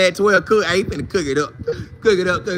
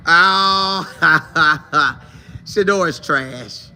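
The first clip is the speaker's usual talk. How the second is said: fake mock hater; much slower than usual. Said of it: "fake out and like".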